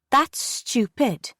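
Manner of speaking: put-on high, very slow dismissive child; scornful girl. A narrator's reading. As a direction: drag out the scorn.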